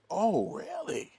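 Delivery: a high, slow, lightly put-on curious voice; a hint of the odd producer, drawn out and intrigued; eccentric European man. Producer hears about the uncle, a mildly imitated high, slow voice. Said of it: "That's how he talks".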